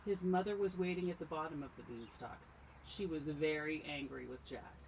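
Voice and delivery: animated storytime reading; telling a fairy tale to little listeners; storybook narration. A narrator's reading. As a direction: read it aloud to children, clearly projected. Reads a story aloud to children.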